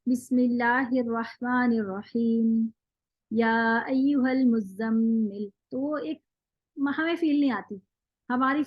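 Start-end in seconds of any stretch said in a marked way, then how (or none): 0.1-5.5 रहीम cut short, only two counts; quick short recitation. Shown as a demonstration. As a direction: rush the stop without lengthening. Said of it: "अब जैसे मैं जल्दी से पढ़ लूं".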